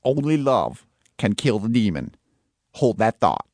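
put-on Australian accent; lightly hammed Melbourne accent for a scene. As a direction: play it as a Melbourne local. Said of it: "your Melbourne accent".

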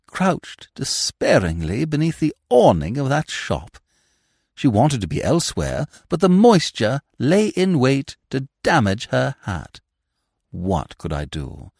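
lightly theatrical, rising and falling plea; a hint of noble orator; mock-heroic gentleman. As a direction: justify the theft as chivalry. Smith's mock-heroic justification.

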